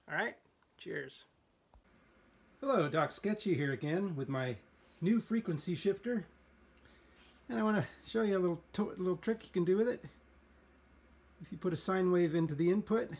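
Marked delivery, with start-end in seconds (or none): 2.6-10.0 upbeat, louder and faster intro; energetic. Real, not acted. Restarts intro with more energy.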